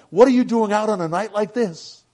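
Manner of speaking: astonished host calling out; astonished question. A narrator's reading. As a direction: ask in loud disbelief. Astonished at stranger out in blizzard.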